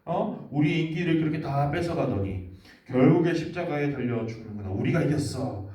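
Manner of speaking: high, loud gloating taunt; jealous leaders gloat over Jesus, sneering loudly; gloating mockery. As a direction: crow over a beaten rival. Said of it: "이렇게 말하는 거예요".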